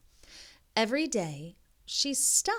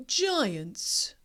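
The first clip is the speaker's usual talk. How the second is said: awed spooky whisper; 3 semitones higher than usual. Acted. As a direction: whisper it with wonder. Alex says giants, spooky.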